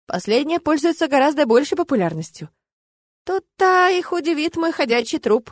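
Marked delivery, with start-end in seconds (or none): 3.2-5.5 wry snort. A narrator's reading. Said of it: "хмыкнула я".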